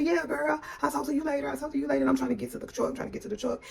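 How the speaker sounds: high-pitched, casual cover-up voice; hurried brush-off. Retold or imitated. Woman hiding trouble from her friend, hurried high-pitched goodbye. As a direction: re-enact a rushed, high goodbye. Hiding distress while hurrying away.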